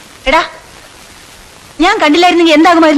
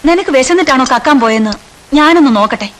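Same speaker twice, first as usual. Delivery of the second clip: put-on softened teacher questioning a hungry boy; gentle question. Teacher now gentle, feeds boy.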